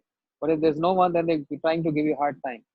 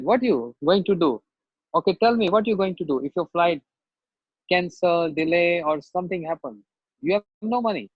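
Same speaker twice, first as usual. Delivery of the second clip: rude official; 2 semitones higher than usual. Retold or imitated. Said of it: "she was very rude on me again".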